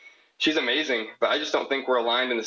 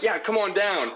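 eager invitation; 8 semitones higher than usual. Retold or imitated.

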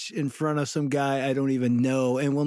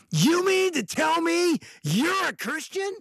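high, slow indignant disbelief from the businessman; imitating an offended stranger, pitched way up; mock outrage; 13 semitones higher, slower than usual. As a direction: stretch it out, scandalized. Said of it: "And he's all mad".

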